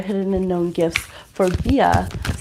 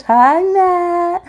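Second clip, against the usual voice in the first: excited greeting; 9 semitones higher, 5 dB louder than usual. Real, not acted. Greeting a friend in chat.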